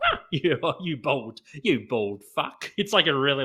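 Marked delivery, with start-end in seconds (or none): 0.3-2.7 slow, drawn-out, mock Cockney accent. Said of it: "like, Cockney kind of accent".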